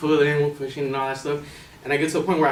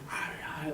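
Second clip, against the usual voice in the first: hushed, voiceless "rah, rah"; mock yell with the volume turned way down; imitated muted yell; 12 dB quieter than usual. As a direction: mime yelling from too far away to hear. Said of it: "he's trying to yell or something".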